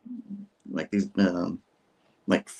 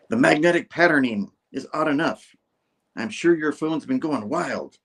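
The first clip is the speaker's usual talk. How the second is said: a slightly higher character read; lightly voiced assistant; 5 semitones higher than usual. Assistant talking to the archaeologist, lightly acted and higher. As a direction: read it as a comic-book assistant, pitched up a little.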